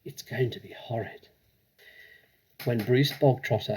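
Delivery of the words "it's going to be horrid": softer hushed dread; whisper. Acted. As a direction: keep it hushed. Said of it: "Lavender whispered back".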